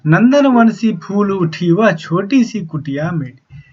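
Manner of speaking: slow, measured reading of a verse; poem recitation. Acted. Teacher slowly reciting the poem to the students. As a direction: recite the lines slowly to the class.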